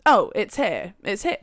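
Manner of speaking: lightly imitated Jamaican accent; mild mock Jamaican accent. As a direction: retell it with a touch of Jamaican accent. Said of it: "a very thick Jamaican accent".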